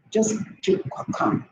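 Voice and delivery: whispered, slow and hushed. Shown as a demonstration. Preacher whispering calm advice to the ladies. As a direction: drop to a whisper to show calm. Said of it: "Be quiet".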